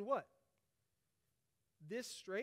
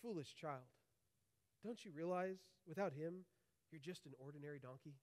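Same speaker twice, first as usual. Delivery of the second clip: mother speaking softer and lower; tender scolding of a foolish child; gentle; 5 semitones lower, 9 dB quieter than usual. A narrator's reading. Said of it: "And she said gently".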